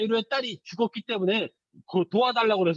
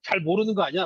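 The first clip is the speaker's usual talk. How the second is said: lower, scoffing ridicule; storyteller voicing the crowd jeering at Jesus, mocking; mocking sneer; 6 semitones lower than usual. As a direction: scoff at him like he's a fool. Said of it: "라면서 막 비웃었어요".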